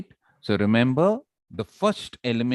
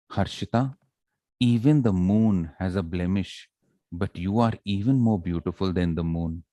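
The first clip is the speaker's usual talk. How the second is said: slow; 4 semitones lower than usual. Shown as a demonstration. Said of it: "did I go slow or fast? ... I went slow".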